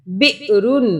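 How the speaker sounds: बिरुन with a glottal catch after बि; short, jolted बि in बिरुन; jerk on hamza. Shown as a demonstration. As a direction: break बिरुन sharply after the first syllable, then रुन. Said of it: "हमज़ा पे झटके से पढ़ेंगे".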